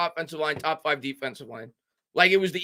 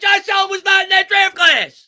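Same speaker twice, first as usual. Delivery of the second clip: loud, high, insistent scream; 10 dB louder than usual. Reading a chat message from Stuart, who is screaming at the speaker: imitating someone screaming. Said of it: "He's screaming at me".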